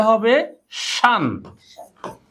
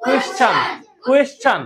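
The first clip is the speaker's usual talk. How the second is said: shouted. Shown as a demonstration. Teacher drilling the class, shouting কোয়েশ্চেন. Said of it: "চিল্লায় বলো".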